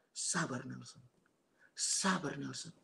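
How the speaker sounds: soft, hushed voice of the Holy Spirit; menenangkan. Retold or imitated. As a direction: gently urge patience, voice falling away. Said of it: "Tapi Holy Spirit mengingatkan". (suara lembut menenangkan)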